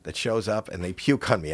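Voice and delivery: mock disgusted complaint, trailing down. Retelling Lou's reaction to a puking fan, mildly disgusted. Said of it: "Lou was disgusted and he goes".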